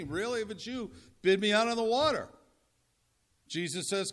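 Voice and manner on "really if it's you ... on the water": raised, eager call across the water; bold challenge. Acted. Peter daring Jesus to call him out, bold and raised. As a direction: call it out boldly, louder at the end.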